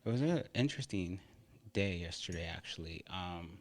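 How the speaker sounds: chewing between words; talking with a mouthful; wolfing down food. Real, not acted. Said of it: "sorry for the food. I'm starving".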